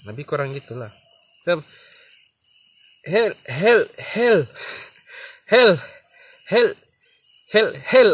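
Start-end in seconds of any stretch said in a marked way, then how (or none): 1.4-8.1 stuck on hel, getting louder each time; stammering demo. Shown as a demonstration. Showing viewers how the stammer sounds, stuck repeats growing louder. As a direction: stutter on the syllable, building up. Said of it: "kenapa pandai gagapnya".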